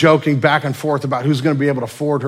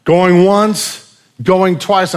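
loud auctioneer's call, going once, going twice; preacher voicing the auctioneer, loud; 7 semitones higher, 9 dB louder, much slower than usual. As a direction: call it out like an auctioneer over the crowd. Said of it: "the auctioneer goes".

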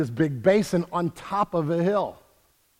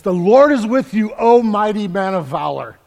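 lightly declaimed angel greeting, a touch louder; angel's proclamation; 2 semitones higher, 6 dB louder than usual. Acted. Angel greets fearful Gideon, lightly proclaimed. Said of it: "the angel of the Lord says".

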